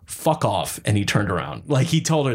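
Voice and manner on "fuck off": nicest-way dismissal. Retold or imitated. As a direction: dismiss them as nicely as possible. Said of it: "he said in the nicest way".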